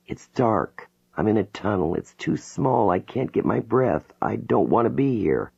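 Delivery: a trapped voice fighting for breath; frightened, near tears. Acted. Jane reliving her birth, frightened and near tears. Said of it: "She's crying".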